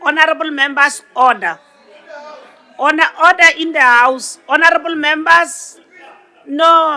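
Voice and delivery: loud call for order in the house; shouting order order. Real, not acted. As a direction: raise your voice over the noise, calling order. Speaker calling house to order.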